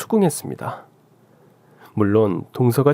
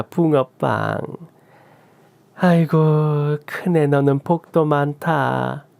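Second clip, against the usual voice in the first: gloating mother-in-law; 3 semitones higher than usual. Acted. Mother-in-law gloating at daughter-in-law over the new grandson, smug and taunting.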